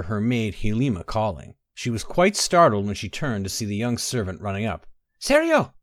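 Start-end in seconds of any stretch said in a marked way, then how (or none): 5.2-5.7 high, breathless shout of a name; breathless call. A narrator's reading. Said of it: "she said breathlessly".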